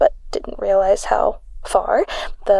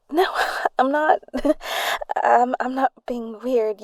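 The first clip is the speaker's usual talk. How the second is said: laughing denial. Acted. Friend denies acting weird.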